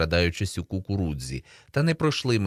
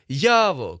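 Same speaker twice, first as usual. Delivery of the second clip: higher, loud call for a friend; full-throated shout; 6 semitones higher, 5 dB louder than usual. A narrator's reading. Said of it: "кричу я на повну губу".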